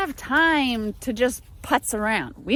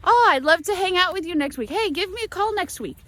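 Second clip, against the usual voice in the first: breezy American promise; 6 semitones higher than usual. Retold or imitated. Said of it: "they say".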